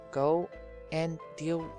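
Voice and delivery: ordinary talk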